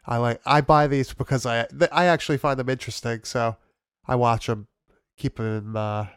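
stuffy, nasal from a cold. Real, not acted. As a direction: talk through a blocked nose. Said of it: "I can tell I sound very nasally right now".

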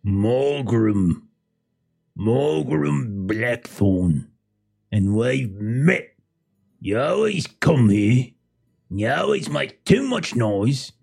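put-on irritated old fisherman hushing them, slow; a testy angler who wants silence; grumpy fisherman. GM voices fisherman Morgrim.

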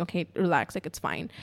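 low, softened self-soothing; calming down. Retold or imitated. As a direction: settle yourself down, quietly. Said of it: "I calmed down".

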